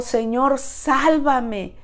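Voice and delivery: pleading, a touch of panic; desperate cry. Retold or imitated. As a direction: cry out for rescue as if sinking. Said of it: "Pedro clamó".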